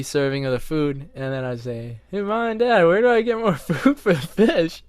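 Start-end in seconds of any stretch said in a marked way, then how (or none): 2.1-4.8 put-on high-pitched kid calling to the parents; raised, eager question as a child; kid asking parents. Son asking Mom and Dad about fish food, high kid voice.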